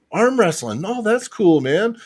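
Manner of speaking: high-pitched, delighted imitation of a guard; impressed border guard. Border guard hearing about arm wrestling, impressed and friendly. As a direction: react as a chummy, impressed official.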